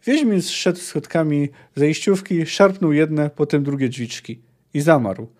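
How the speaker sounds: steady read-aloud with voiced quotes; story narration. Reading the chapter to viewers, as a story narrator. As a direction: tell the grim scene as a storyteller. Reads the cabin scene aloud.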